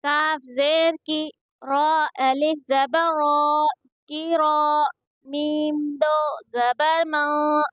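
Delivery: slow, level-pitched syllable chant; measured qaida recitation for learners to copy; Quranic spelling drill. Shown as a demonstration. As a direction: spell out each syllable with drawn-out vowels.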